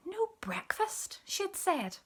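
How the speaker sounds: hurt. A narrator's reading. Cat recalls hurtful words.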